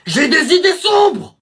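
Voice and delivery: slow, hammed-up menacing werewolf line; mock werewolf. Élève qui joue le loup-garou devant la classe, voix menaçante ratée. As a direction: drag it out like a wannabe werewolf. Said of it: "je crois que je suis un loup-garou".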